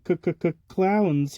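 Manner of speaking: scared stutter on the first sound; stammering fright. Acted. Chucky spotting a huge clown, frightened stammer. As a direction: stammer out the word in alarm. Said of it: "Chucky started stammering".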